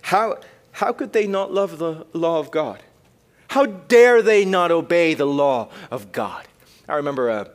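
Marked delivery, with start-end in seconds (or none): 0.0-6.5 slow, pleading indignation; voicing the indignant psalmist. Preacher voicing the psalmist outraged at the wicked, slow disbelief. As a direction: ask it in disbelief. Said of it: "He's like".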